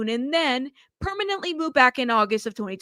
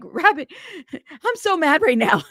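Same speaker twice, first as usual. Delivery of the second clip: laughing quote; 5 semitones higher than usual. Retold or imitated. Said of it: "Pinche Beck is like".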